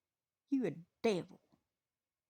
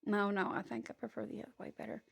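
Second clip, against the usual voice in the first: dismissive; 4 dB quieter, faster than usual. Real, not acted. Drops the sweet act, dismissive.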